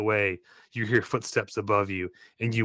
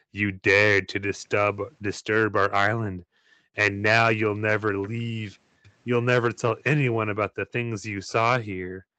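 cold voice; 3 semitones lower than usual. Acted. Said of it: "in a cold voice".

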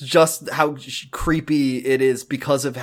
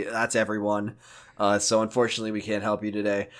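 lightly voiced detective, lower and quieter; police detective; 4 semitones lower, 4 dB quieter than usual. Detective turns down a caller for help, lightly voiced and subdued. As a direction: hedge like an apologetic officer, voice kept low. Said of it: "you call Detective Breen, and he's like".

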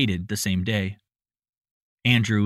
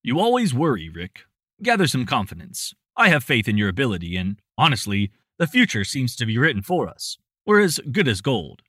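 reassuring. Acted. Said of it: "assured Andrew".

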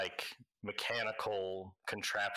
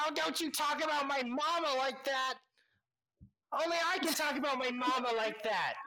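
very high, outraged squeaky protest; indignant gnome; 3 dB louder, faster than usual. Acted. Gnome defending his mother, very high outraged squeak. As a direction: defend your mama, huffing. Villains trading insults.

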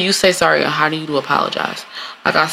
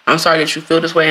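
dismissive; faster than usual. Shown as a demonstration. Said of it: "open-ended".

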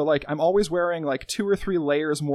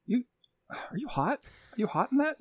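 nosy boss; 7 semitones higher, 7 dB quieter than usual. Retold or imitated. Boss quoted, whispered then high.

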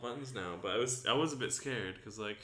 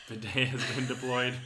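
robot announcer voice; 3 semitones higher, 3 dB louder than usual. Pretend. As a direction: announce it like a machine. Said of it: "when you said that in that voice".

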